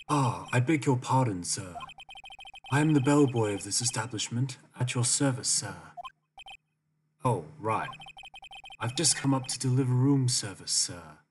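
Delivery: a hint of a formal bellboy, lightly voiced. Gamer voicing the bellboy to Phoenix, lightly formal. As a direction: play the hotel bellboy, polite and stiff. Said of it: "I'm doing the voice anyway".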